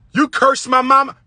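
high, indignant accusing husband; mock accusation. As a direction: act out his agitated complaint. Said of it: "So when he say".

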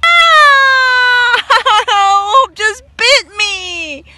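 loud high yelp, laughing through it; pained yelp. Real, not acted. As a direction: yelp after a bite, half laughing. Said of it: "you guys saw that".

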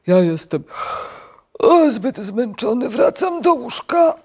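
loud, high yawning whine; hammed-up weary moan; exhausted sleepy toad. A narrator's reading. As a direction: yawn through the complaint. Sleepy toad refuses to get up.

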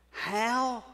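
soft, halting question fading to a whisper; breathless awe; hushed wonder. Real, not acted. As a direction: ask it in quiet amazement. Awed question about grace.

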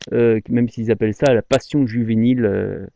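ordinary talk

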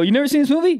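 mock shocked question; incredulous. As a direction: act stunned that they missed it. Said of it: "They go".

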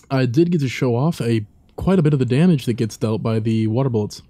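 talking with food in mouth; words round a mouthful; mouth full. Real, not acted. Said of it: "Sorry, I had something, uh, in my mouth".

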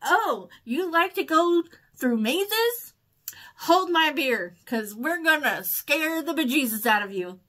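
playful goading with swooping emphasis; taunting universe. Retold or imitated. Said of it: "the universe said".

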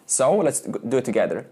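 usual speaking voice

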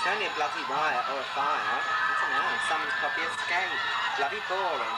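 lightly voiced, unimpressed prisoner; bored inmate.

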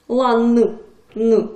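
"н" said hard and held, loud; hard consonant. Shown as a demonstration. Teacher shows pupils a hard ending, hard consonant demo. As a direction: stress the hard, unsoftened "н". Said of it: "твердий приголосний".

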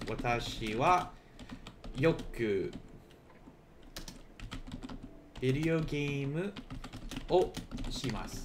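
slow, word by word with pauses; slow and deliberate. Shown as a demonstration. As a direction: spell the sentence out slowly for learners. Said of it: "I could say for me".

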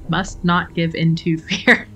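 slow, solemn mock-heroic line; dramatic reading. Shown as a demonstration. Gamer reading her character's resolve aloud, slow mock drama. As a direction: intone it slowly like a movie hero bracing himself. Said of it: "ruined the dramatic reading of that".

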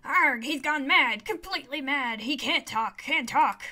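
squawky bird repeating short phrases; agitated talking bird. Acted. Bird telling the player Amari has gone mad, agitated squawk.

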